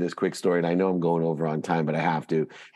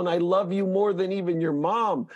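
high, lofty voice of a loving God, easing into apology; God speaking; 11 semitones higher than usual. Acted. God apologizes to his child for the pain, high and lofty. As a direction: speak down as an all-knowing parent.

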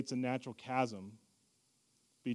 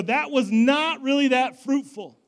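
mock disappointed worshipper; 10 semitones higher, 12 dB louder than usual. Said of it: "and go".

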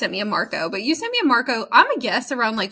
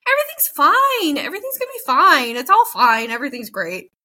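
carefree reassurance. Retold or imitated. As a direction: brush it all off cheerfully. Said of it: "you're like a".

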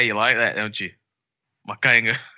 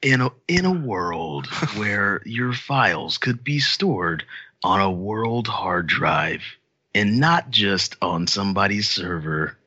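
slow, dramatic movie trailer narrator, lightly done; slower than usual. Acted. Pitching Filecoin to the cohosts in a mild movie trailer voice. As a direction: lean in like the movie guy announcing a blockbuster. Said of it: "in my movie theater guy voice".

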